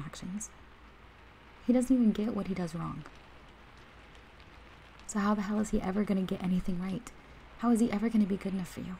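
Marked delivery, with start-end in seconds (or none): 1.7-8.9 fed up and forceful; indignant. Acted. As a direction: push it out, outraged on their behalf. Indignant rant about friend's boyfriend.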